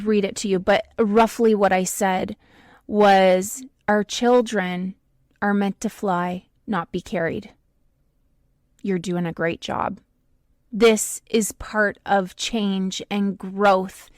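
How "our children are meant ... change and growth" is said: tender reassurance. Retold or imitated. Reassuring a worried mother.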